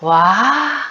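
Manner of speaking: ordinary delivery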